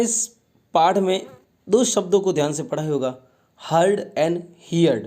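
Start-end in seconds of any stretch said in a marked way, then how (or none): 3.7-5.0 "heard and heard" stretched very slowly, each word held; drawn-out word pair. Shown as a demonstration. Teacher slowly sounding out "heard and heard" for pupils. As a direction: say "heard and heard" slowly so pupils hear both match. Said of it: "heard का मतलब होता है झुंड".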